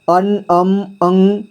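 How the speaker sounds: अन, अम, अंग each said as a separate sound; nasal-sound demonstration. Shown as a demonstration. Teacher showing how the dot sounds, each nasal sound apart. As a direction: isolate the nasal endings of अन, अम, अंग. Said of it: "इस तरह से आवाज़ आ रहा है".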